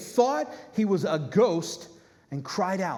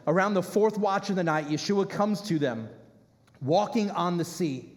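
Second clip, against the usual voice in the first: slow reading. Acted. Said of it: "here's what stands out the most".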